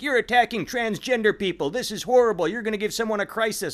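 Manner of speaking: a hammed-up, high outraged voice; mock outrage. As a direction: parody the offended commenters. Mocking outraged online commenters.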